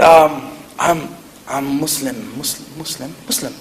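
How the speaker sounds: frightened grandson stammering to grandma; nervous stammer. Retold or imitated. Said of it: "I was scared".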